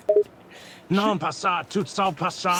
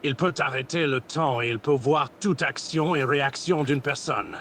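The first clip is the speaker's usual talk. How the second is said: lightly put-on Goku Black voice; villain roleplay voice; 6 dB louder than usual. Voice chat roleplayer playing Goku Black, lightly voiced villain. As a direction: grandiose villain speech, held steady. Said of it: "un truc dans la gorge".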